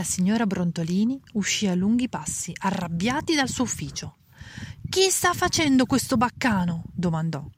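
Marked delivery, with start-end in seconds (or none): 4.9-6.8 higher, sharp angry question; angry demand. A narrator's reading. Head librarian storming out at the noise, angry demand. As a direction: demand it, annoyed.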